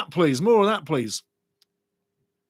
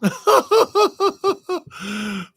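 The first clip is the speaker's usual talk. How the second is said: loud burst of high laughter; real belly laugh at the chat; big high laugh; 13 semitones higher, 5 dB louder than usual. Real, not acted. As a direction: crack up out loud. Reading funny chat comment.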